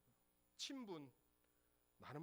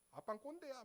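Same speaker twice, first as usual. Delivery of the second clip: higher mock daughter teasing; father playfully mimicking his daughter calling him an old fogey; imitating daughter; 8 semitones higher than usual. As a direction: tease dad in a kid's voice. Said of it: "저희 딸 저한테 맨날 그래요".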